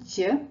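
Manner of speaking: "j" said with mouth slightly stretched sideways. Shown as a demonstration. Teacher shows learners how the mouth shapes the sound, stretched-mouth j. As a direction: say "j" through a small smile. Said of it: "your mouth is slightly stretched to the side".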